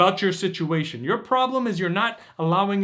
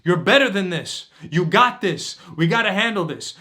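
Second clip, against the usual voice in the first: louder, rallying inner coach; inner voice pushing; 2 semitones higher, 4 dB louder than usual. Retold or imitated. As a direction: pump yourself up like your higher self. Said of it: "that spiritual higher self that's saying".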